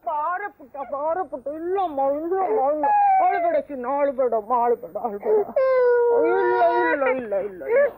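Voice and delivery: put-on rock the child and calm its wailing; soothing a crying baby.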